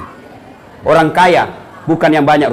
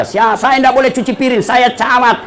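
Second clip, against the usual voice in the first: higher-pitched haughty camat; self-important refusal; 5 semitones higher than usual. Acted. Preacher mimics a camat refusing housework, self-important. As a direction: put on a mock-important official's voice.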